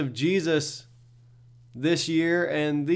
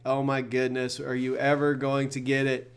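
a hint of an exasperated, fed-up Jesus; stern exasperation; 3 semitones lower than usual. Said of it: "not sternly, not like".

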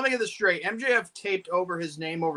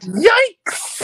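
yikes; 12 semitones higher, 9 dB louder than usual. Real, not acted. Reacting to shocking comment.

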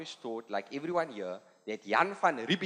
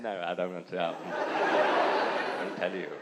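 stiff white voter; 12 semitones lower than usual. Acted.

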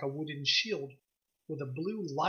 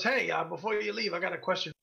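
lightly voiced gruff woman shopkeeper; a hint of gruff merchant. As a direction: greet a customer in a mildly gruff voice. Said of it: "she's got this gruff voice".

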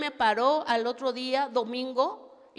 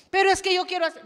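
whiny protest; 6 semitones higher, 9 dB louder, much faster than usual. Acted. Acted back-and-forth with pastor.

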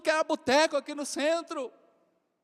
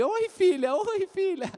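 higher, excited fatherly greeting; a dad cooing at his newborn; eager dad; 8 semitones higher, slower than usual. Retold or imitated. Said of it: "E o pai tá ali". (pai empolgado, voz mais aguda)

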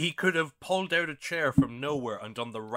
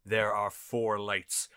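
slow, deliberate captain's line; slow Star Trek quote; 3 semitones lower, slower than usual. Retold or imitated. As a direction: lean in and say it slowly and gravely. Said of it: "just leaned in close and just goes".

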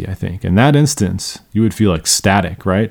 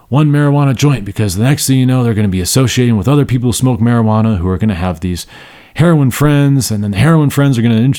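mock alarmist warning. Teacher mocking a panicky parent's warning, hammed-up. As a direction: ham up a doom-saying parent.

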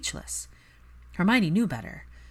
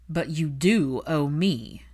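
slice straight through the tension; sharp and cutting; 3 dB louder, much slower than usual. A narrator's reading. Draco confronting his mother, cold and cutting. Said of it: "The sharp knife of Draco's voice cut through".

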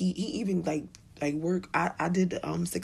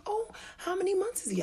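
chirpy mom voice; 13 semitones higher than usual. Retold or imitated. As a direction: ask like a polite stranger at playgroup, pitched high. Other mother asking.

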